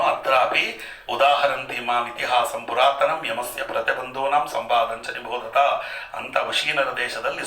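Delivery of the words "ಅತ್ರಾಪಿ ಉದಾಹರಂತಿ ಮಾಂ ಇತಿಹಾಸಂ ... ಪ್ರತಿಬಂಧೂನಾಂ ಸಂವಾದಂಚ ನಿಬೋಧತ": measured, intoned shloka recital; Sanskrit verse recitation. Acted. Preacher quoting scripture to listeners, intoned recital.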